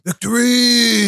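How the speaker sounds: high, slow victory cry; excited cheer. Real, not acted. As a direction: belt it out in triumph. Celebrating Saturday's win.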